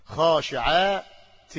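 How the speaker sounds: خاشعات drawn out slowly; slow example word. Shown as a demonstration. Teacher stretching an example word for students. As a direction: stretch خاشعات to show the tanween. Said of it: "فأقول".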